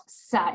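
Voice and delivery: "sa" with a plain hissed s, not th; S sound. Shown as a demonstration. Teacher showing the sound to avoid, s-sound "sa". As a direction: hiss the start of "sa". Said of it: "it's not an S sound".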